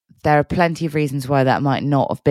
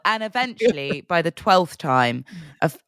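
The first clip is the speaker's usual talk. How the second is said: hiccups; 2 semitones higher than usual. Real, not acted. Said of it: "sorry, I've got the hiccups".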